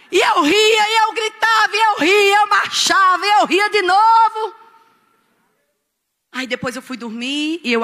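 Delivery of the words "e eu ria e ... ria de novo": high, loud, rhythmic chanting build; frenzied retelling. Retold or imitated. Preacher reliving laughing and marching alone at home, frenzied retelling. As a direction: drive each action out in a raised voice.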